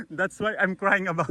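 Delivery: said through laughter, slowed; laughing. Real, not acted. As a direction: giggle through the catchphrase. Laughing at his own joke.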